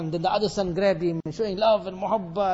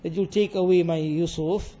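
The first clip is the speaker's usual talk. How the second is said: grieving father; 3 semitones higher, 3 dB louder than usual. Acted. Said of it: "He said".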